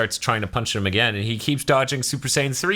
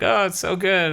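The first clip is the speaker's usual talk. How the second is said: mock Pilaf; 9 semitones higher than usual. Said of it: "he's like".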